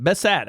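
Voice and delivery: Bassett ending in a full "ad", "bess-AD"; guessed pronunciation. Shown as a demonstration. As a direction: stretch the last syllable of Bassett. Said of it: "however the hell you".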